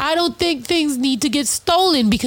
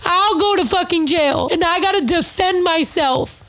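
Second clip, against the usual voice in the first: pushing the words out in frustration; heated, raised rant; 4 semitones higher than usual. Real, not acted. Venting to podcast listeners, higher and heated. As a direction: voice climbs higher as anger builds. Angry rant about self-defense.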